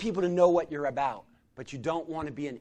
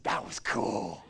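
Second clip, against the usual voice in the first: shy laughing reply; 6 dB quieter, much slower than usual. Retold or imitated. Shy homeless man, delighted.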